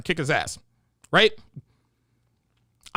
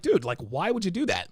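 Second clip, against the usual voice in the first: mild hurt question; 6 dB quieter than usual. Retold or imitated. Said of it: "I was just like".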